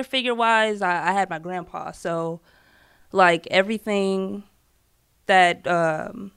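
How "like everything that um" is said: nervous, faltering voice; shaky with nerves, losing the thread; stage fright. Real, not acted. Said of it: "I'm sorry, I'm nervous".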